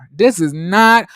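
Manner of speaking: sudden loud mock outcry; mock outraged outburst. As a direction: blurt it out, pretend scandalized. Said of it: "And I was like".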